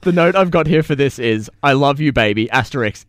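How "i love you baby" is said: put-on sexy Greek accent. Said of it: "in sexy Greek accent".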